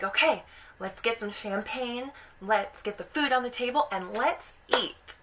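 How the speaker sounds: retold delighted wife rallying the table; excited. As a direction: play her eager excitement. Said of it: "And she's so excited".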